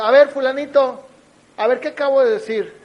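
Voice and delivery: maestro que llama la atención, más fuerte; maestro regañón. Retold or imitated. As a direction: reclama al alumno distraído en voz alta. Maestra regaña al alumno distraído. (maestro regañando en voz alta)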